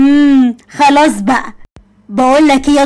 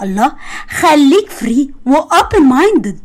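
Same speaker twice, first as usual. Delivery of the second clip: slow teasing drawl; 2 semitones higher, much slower than usual. Acted. Teasing boyfriend.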